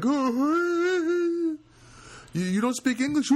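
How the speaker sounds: put-on old Russian neighbor. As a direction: pitch way up into a reedy elderly squeak.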